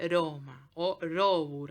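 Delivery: "Roma o Robur" with a single tap R, no trill; soft tapped R in "Roma"; soft Latin R. Shown as a demonstration. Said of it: "en latín se dice".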